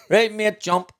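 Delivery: loud, high call to jump; mock urging shout; retold shout. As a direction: call it out like egging someone on. Group urging man to jump.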